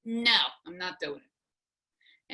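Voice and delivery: slow, deliberate, each word set down with NO drawn out; the last word, said slowly to end it; final no. Retold or imitated.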